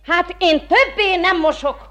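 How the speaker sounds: quitting her washing in a huff; defiant refusal. Acted. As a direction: dig in and refuse. Washerwoman quits in protest.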